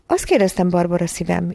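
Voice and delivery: "Azt kérdeztem" articulated distinctly; "Azt kérdeztem, Barbara szívem" spoken carefully. A narrator's reading. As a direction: repeat "Barbara szívem" so each word is understood. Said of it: "ismételte érthetőbben".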